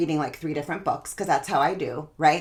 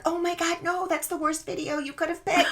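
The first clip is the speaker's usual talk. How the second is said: mock dismay; 9 semitones higher than usual. Coach reacting to an athlete's bad Google video, mock dismay. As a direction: object in a high voice, hammed-up horror.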